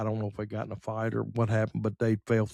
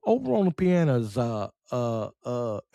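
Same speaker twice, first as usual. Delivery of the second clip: teasing imitation. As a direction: tease someone by imitating their fumbled introduction. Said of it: "aggravated my dad after that. We'd go".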